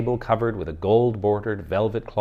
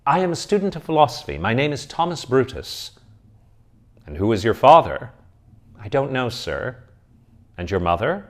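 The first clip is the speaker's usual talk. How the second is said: lightly voiced young student, earnest; a nervous young seminarian answering a stern elder; hint of a flustered student; student Thomas; 3 semitones higher, 6 dB louder than usual.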